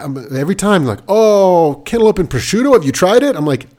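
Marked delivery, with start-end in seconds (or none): 1.1-3.4 higher, louder mock-gushing voice; mock pushy foodie. Mocking people who push cantaloupe on him, gushing high and loud. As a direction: ham up a gushing food snob, pitched up.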